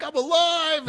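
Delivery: very high, loud cry of elation; retold yelling. Jumper re-enacting joy under an open chute, exultant yell. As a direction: yell it like the chute just opened. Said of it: "I'm yelling, I'm like".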